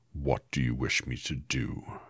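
slow solemn wizard; Oz's voice. Acted. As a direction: weigh each word like a mighty wizard. Oz questions Dorothy.

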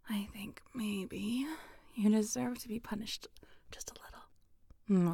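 soft breathy unvoiced whisper close to the mic; intimate whisper. Partner being teased gently, in an intimate whisper.

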